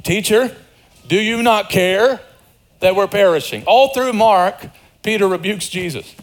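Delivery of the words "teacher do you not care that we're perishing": Peter's rebuke. Retold or imitated. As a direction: press Peter's complaint word by word. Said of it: "sounds exactly like Peter".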